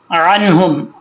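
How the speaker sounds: अन्हुम starting on a clear throaty ain. Shown as a demonstration. Teacher models the ain, careful recitation. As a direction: open अन्हुम from mid-throat, careful and measured. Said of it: "आइन को clear करना है".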